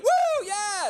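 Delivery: very high whooping cheer; piercingly high mock party scream; screaming audience member. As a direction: imitate an overexcited whooper. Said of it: "started screaming".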